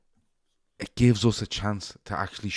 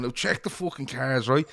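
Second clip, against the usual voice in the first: rousing team talk; 4 semitones higher than usual. Pretend. Shawnee firing up garage staff with a team talk, building. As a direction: fire them up like a manager before a match. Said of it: "giving it the big one to them going".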